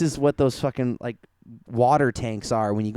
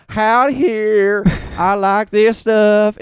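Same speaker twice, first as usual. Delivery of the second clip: slow, higher, louder hick Southern drawl; hick Southern accent; 6 semitones higher, 6 dB louder, much slower than usual. Retold or imitated. Mocking the show's character in a hick Southern accent. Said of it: "the white woman's accent".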